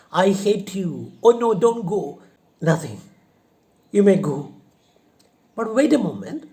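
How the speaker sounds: loud, high, flip between go and stay; confused loud outburst. Acted. Confused widow flip-flopping at the suitor, loud. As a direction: yell at him, then beg him to stay. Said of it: "So she is also in confusion".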